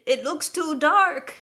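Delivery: disagreeing. Acted. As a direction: object in a drawn-out, hammed-up voice. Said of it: "disagreed Ratchet".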